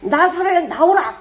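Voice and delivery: high, loud call out to the tomb. Retold or imitated. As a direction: command the dead man to come out, loud. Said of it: "그 소리에 경악을 하는 거지".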